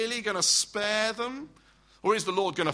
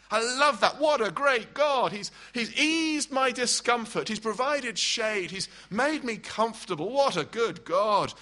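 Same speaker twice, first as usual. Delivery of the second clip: delighted Jonah; 5 semitones higher than usual. Acted. Preacher voicing a delighted Jonah, higher and gushing. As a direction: gush like a man pleased with his shade. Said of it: "He loves it".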